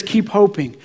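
a hushed, near-whispered voice of God; barely above a whisper, tender and patient; softly reassuring whisper; small still voice. Retold or imitated. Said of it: "and he says".

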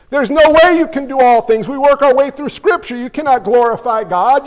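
put-on scolding old preacher. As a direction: berate Paul like an outraged old Welsh pastor. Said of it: "says the old preacher from Wales".

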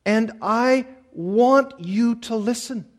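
slow, pleading prayer to the Lord; earnest prayer. Acted. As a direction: pray it out, begging to be heard. Pastor voices a prayer.

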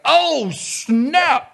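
high, loud "Oh, snap!" yelp; mock "oh snap". Coworker reacting to the cheeky remark with a high whoop. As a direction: play the stunned coworker, whooping. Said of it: "was like".

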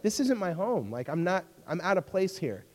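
homesick lament. Retold or imitated. Speaker retells feeling out of place away from home, mildly plaintive.

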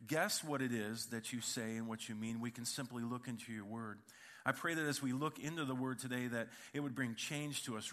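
earnest steady prayer voice. Acted. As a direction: pray over the congregation, calm and sincere. Opening prayer before sermon.

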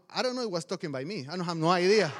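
ordinary delivery

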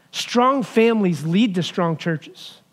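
Strong families lead to strong churches, each word slow and weighted, stress on strong; slow emphatic statement. Shown as a demonstration. Pastor driving home his main point, slow and weighted. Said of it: "here's the big statement".

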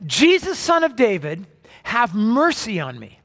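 half-yelled plea for mercy; reenacted cry to Jesus; mock yell. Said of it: "he yells out literally at the top of his lungs".

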